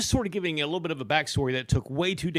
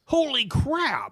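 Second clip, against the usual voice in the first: amazed exclamation; 8 semitones higher, slower than usual. Real, not acted. Hearing of a huge cat.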